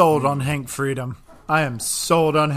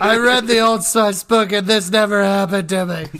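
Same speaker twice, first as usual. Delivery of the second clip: hammed-up, higher-pitched wail; mock breakdown; 4 semitones higher, 3 dB louder than usual. Podcast guest lamenting the Old Spice book, mock anguish. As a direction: protest as if falling apart.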